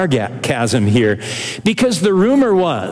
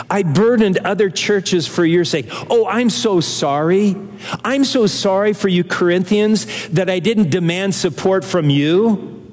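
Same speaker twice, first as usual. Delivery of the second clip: mock apology; 2 semitones higher than usual. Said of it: "You see, it's sarcasm".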